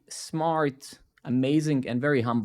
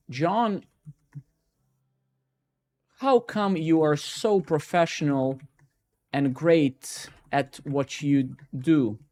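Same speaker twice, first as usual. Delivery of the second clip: slow, hammed-up admiring question; mock LinkedIn admirer; slower than usual. Shown as a demonstration. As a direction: drag out the praise like a fawning fan. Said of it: "I'm gonna demonstrate LinkedIn".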